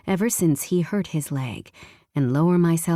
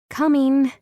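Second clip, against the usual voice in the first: climax cry; 9 semitones higher, 4 dB louder than usual. Acted. Heroine reaching climax.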